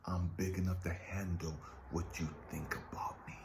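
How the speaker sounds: soft, whispered reassurance; whispered God. Acted. God answering the angry kid, whispered. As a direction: whisper it, calm and sure.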